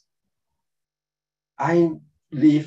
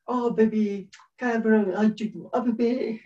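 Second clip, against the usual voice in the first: cooing parent; 7 semitones higher than usual. Acted. Parents hushing their crying baby, cooing. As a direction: lightly coo at the baby in a raised pitch.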